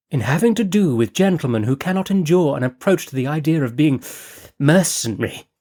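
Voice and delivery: breezy, scatterbrained noblewoman chatter; Lady Fareway. Acted. Narrator voices Lady Fareway.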